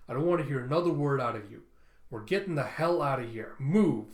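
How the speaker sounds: firm orders ending in a loud bark; urgent command. Acted. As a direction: order them out, punching the last word. Tulsa orders them to flee.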